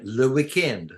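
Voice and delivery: "le weekend" as a French borrowing; French accent. Shown as a demonstration. Explaining French borrowing to a friend, mock French accent. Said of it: "pronounce it as if you have a French accent".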